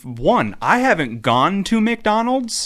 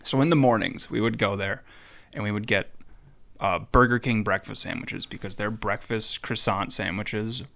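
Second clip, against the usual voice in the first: ordinary delivery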